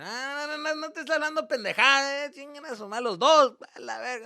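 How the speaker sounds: high, loud interruption; angry dad outburst. Retold or imitated. Dad snapping at son and girlfriend, loudly angry. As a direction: cut in furiously as the dad. Dad cuts in on their talk.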